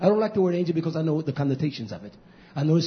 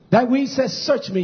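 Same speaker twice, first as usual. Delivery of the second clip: higher, louder pulpit voice; raised preaching; 8 semitones higher, 5 dB louder than usual. Real, not acted. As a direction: lift the scripture out to the congregation. Preaching rises in force.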